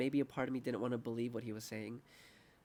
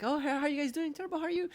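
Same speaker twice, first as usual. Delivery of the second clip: high, bright greeting and a cheery "Terrible"; mock server exchange with dark joke; chirpy waiter then deadpan; faster than usual. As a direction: play both sides of the table chat.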